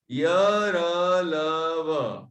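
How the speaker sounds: प, फ, ब, भ, म said one by one with the lips; lip consonants drilled. Shown as a demonstration. Teacher demonstrating प फ ब भ म to the class. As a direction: sound out प फ ब भ म, each on its own. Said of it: "सुनना ध्यान से".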